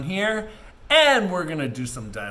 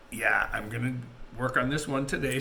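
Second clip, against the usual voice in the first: talking through hiccups; hiccuping mid-sentence; faster than usual. Real, not acted. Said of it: "Sorry, I have the hiccups".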